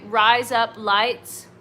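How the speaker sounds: "Rise up lights" drawn out to pass for Australian "razor blades"; slow demonstration of "Rise up lights" as a sound-alike. Shown as a demonstration. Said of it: "it sounds like razor blades in Australia".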